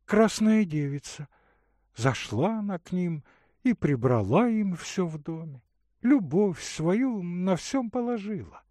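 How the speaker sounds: put-on a caring young woman offering water; Katerina's voice. Katerina telling a tale.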